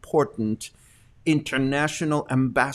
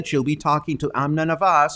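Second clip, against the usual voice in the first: ordinary delivery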